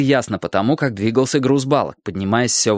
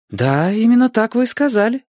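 higher, insistent retort; argumentative teacher; 10 semitones higher than usual. A narrator's reading. Teacher arguing heatedly with the school director, insistent. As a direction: argue back, pitch climbing. Учительница спорит с директором.

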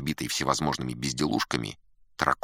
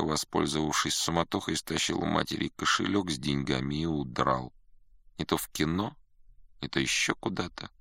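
aggrieved student; 3 semitones higher than usual. Acted. Student recounting a family brawl, plaintive and dejected. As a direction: pour out family troubles, sinking towards despair.

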